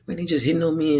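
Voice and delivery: high, whiny imitation of a frustrated friend; mock-whiny teammate moaning about fouls; friend's complaint. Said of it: "he'd just be like".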